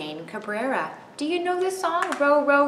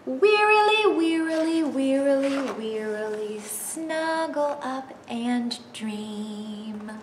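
sleepy; 6 semitones higher, slower than usual. Acted. Sleepy ending of song.

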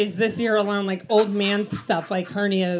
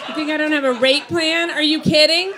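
raised, high-pitched comic outrage; mock indignation; 5 semitones higher, 5 dB louder than usual. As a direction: challenge them, loud and incredulous. Mock outrage at imagined doubter.

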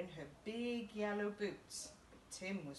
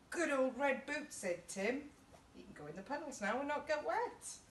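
put-on happy child; 6 semitones higher than usual. Tim happy in his boots.

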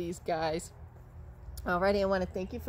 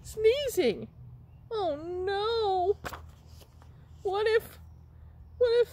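very high squeaky voice, near crying; high whimpering puppet; 14 semitones higher, 5 dB louder than usual. Pretend. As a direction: whine it out between sneezes.

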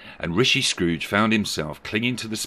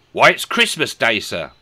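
higher, louder matter-of-fact reply; lightly voiced boy; 4 semitones higher, 7 dB louder than usual. Boy answering a gentleman at the window, lightly voiced. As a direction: answer up with a touch of puzzlement.

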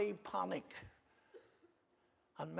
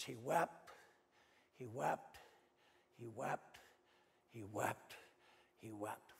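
each he wept lower and softer, dying away; fading repetition; 7 semitones lower, 9 dB quieter than usual. Acted. Preacher echoing Peter's weeping, fading to a hush. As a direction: let it sink into a hush.

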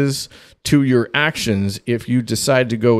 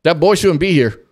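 retold agitated questioning; 4 semitones higher, faster than usual. Dad questions stranger in house.

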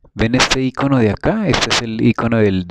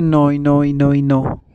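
insistent denial; 5 semitones higher, 3 dB louder than usual. Retold or imitated. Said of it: "uno dice".

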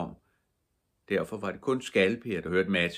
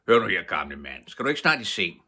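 irritated; 7 dB louder than usual. Acted. Mattis sends old man away.

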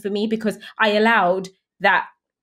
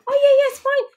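high, loud, laughing brush-off; laughing husband; 5 dB louder, faster than usual. Retold or imitated. Husband laughing at his panicking wife, high laughing reassurance.

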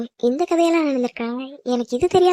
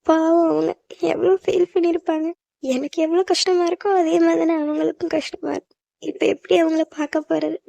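higher-pitched fretting over someone hurt; distressed regret; 4 semitones higher than usual. Acted. Girl alone worrying about the one she hurt, distressed. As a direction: fret aloud with pained pity.

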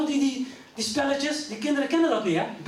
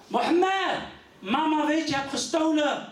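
brother calling out; 4 semitones higher, slower than usual. Retold or imitated.

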